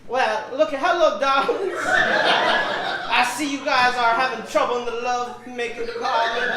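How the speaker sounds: put-on old-time purring charmer, laughing; breathy vintage purr. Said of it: "New character".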